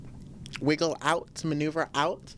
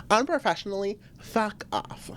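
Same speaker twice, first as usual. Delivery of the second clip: mock curse; 4 semitones higher than usual. Real, not acted. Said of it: "That's what I'm gonna be saying a lot".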